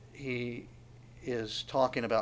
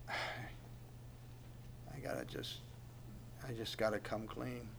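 much softer, almost breathless; weary confession; 2 semitones lower, 14 dB quieter than usual. Acted. Preacher voicing David coming clean, softly and wearily. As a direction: let it out like a man giving up hiding.

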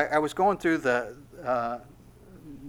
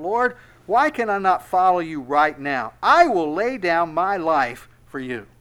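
loud, raised-pitch plea; impassioned protest; 4 semitones higher, 8 dB louder than usual. Acted. Peter protesting to his Lord that he will follow, loud and insistent. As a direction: declare it forcefully, slowing on the vow.

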